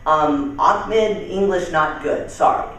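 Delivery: lightly imitated foreign accent, apologetic; broken English with a foreign accent. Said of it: "as I do the accent".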